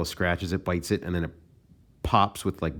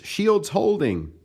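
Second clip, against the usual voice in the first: comic-book defender voice; 12 semitones higher, slower than usual. Retold or imitated. Atlantis defender in comic scene.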